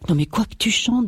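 startled peasant woman's question; alarmed farmwife. Acted. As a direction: demand to know, taken aback. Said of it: "demanda-t-elle un peu pâle".

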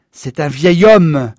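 slow, loud protest. A narrator's reading. Father protesting to the mob, slow and loud. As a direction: plead loudly for the old man. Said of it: "protesta papa".

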